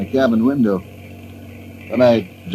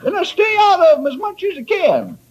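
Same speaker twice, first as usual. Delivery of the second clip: put-on chuckling old salt. Old sailor joking, laughing.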